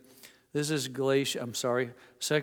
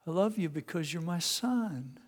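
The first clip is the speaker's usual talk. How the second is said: gentle father; 3 semitones higher, 4 dB quieter than usual. Retold or imitated. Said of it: "the father said".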